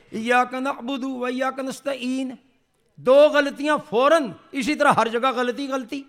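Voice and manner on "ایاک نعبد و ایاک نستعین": slow, lax ایاک نعبد with ع dropped to hamza; careless recitation. Retold or imitated. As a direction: mimic a lazy reciter, no throaty ع. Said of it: "آرام سے پڑھ لیتے ہیں".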